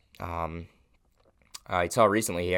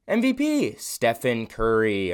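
award announcement; 2 semitones higher, 4 dB louder, slower than usual. Acted. Announcing mid-season award.

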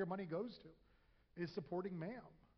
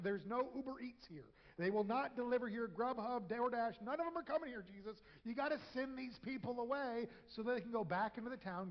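higher, urgent pleading voice of worried followers; anxious disciples; 3 semitones higher than usual. Acted. Disciples urging Jesus to send the crowd away, higher and pressing. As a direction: hurry it up, we need food, a touch higher.

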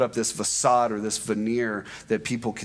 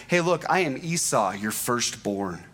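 deceptive lie. Shown as a demonstration. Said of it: "replies with a straight up lie and deception".

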